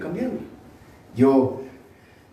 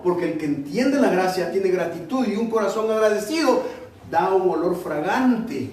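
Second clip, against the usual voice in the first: higher-pitched, insistent preacher's delivery; emphatic preaching; 5 semitones higher, 3 dB louder than usual. Real, not acted. Preacher tells the congregation grace makes them free and responsible, emphatic preaching. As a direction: press the point home to the congregation, pitched up.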